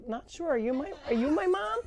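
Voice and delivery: lightly high, puzzled little voice; a hint of a lost baby animal; mock baby goat voice. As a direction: voice the confused kid goat. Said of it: "he's like".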